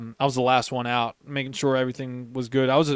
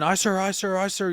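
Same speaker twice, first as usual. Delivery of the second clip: mild mock yell; 5 semitones higher than usual. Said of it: "I'm screaming".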